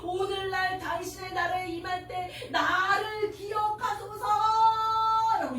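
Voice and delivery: the dying thief calling out to Jesus with all he has; with all his strength. Shown as a demonstration. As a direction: cry it out with every last bit of strength. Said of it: "죽을 힘을 다해".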